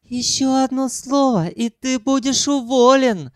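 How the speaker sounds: high, spiteful threat; angry hiss. A narrator's reading. Sanyok threatening to fire Ukhan, spiteful. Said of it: "зло зашипел Санёк".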